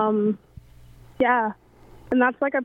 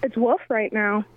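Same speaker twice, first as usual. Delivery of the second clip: muffled. Real, not acted. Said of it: "you're very muffled".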